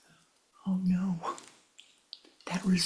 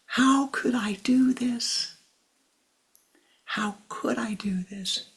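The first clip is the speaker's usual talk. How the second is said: anguished whisper; 6 semitones higher than usual. A narrator's reading. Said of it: "he's crying and sobbing".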